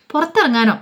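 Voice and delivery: a mild surprised "go out?" from the storyteller; surprised question. Acted. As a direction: pitch jumps up in disbelief. Alina surprised at going out.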